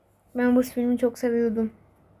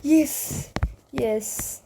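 cheering; 4 semitones higher, much slower than usual. Real, not acted. Cheering a missed shot.

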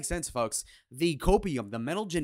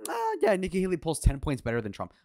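mock smug; 4 semitones higher than usual. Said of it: "He says, confidently and smugly".

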